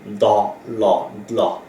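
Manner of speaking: DA, LA, then DLA fused; teacher building DLA from two syllables; consonant-blending demo. Shown as a demonstration. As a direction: sound out DA and LA, then join them as DLA. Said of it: "d et l".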